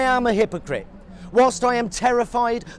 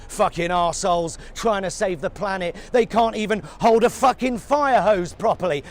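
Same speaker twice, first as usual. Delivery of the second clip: mock edgy prick. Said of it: "You sound like a contrary, wannabe, edgy prick".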